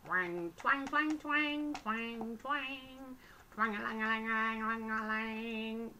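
loud twangy imitation of a slack band; twanging elastic. Showing viewers how loose the band is, noisy twanging.

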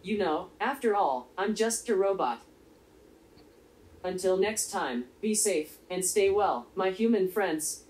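flat, even robot delivery; robot monotone voice. Acted. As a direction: speak like a calm little robot. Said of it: "listening to my monotone voice".

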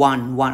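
"one one" pronounced "wun", exactly like the number; correct pronunciation. Shown as a demonstration. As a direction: give "one one" the short vowel of "sun". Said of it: "ออกเสียงเป็น หนึ่ง เลย". (ออกเสียง "one one" เป็น "วัน" แบบเลขหนึ่ง)

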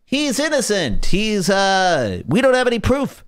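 high mock-pleading defense; imitating an indignant defender; mock protest.

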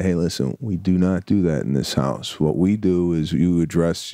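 lightly voiced calm parent talk; a hint of a patient father talking his daughter down; calm diplomatic talk. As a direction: explain it gently to a child. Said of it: "I'll say".

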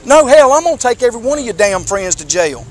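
real, forceful scolding threat; angry threat. Real, not acted. Officer threatening to jail a teen's friends, angry. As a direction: lay down the threat emphatically.

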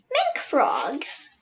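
breathy whisper. Pretend. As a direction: hush it like a secret. Whispers frog name.

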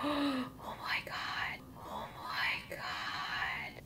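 slow, breath-only whisper of awe; gasp, then whisper it very slowly; overwhelmed, hushed whispering; awestruck whisper. Real, not acted. Overcome by the knives' beauty.

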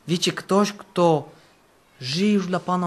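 ordinary talk, nothing marked

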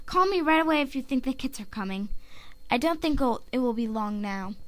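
lightly voiced, reassuring medicine cat; Cinderpelt. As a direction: give caring advice as a healer, lightly acted. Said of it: "And here is my Cinderpelt".

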